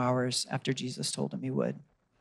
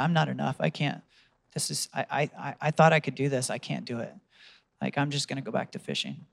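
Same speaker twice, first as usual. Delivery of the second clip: soft, defeated, trailing voice of Peter; despairing; 4 dB quieter than usual. Retold or imitated. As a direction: give up quietly, as if beaten.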